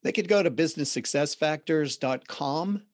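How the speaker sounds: light Boston accent, dropped r's; everyday Boston accent. Real, not acted. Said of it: "I just heard my Boston accent".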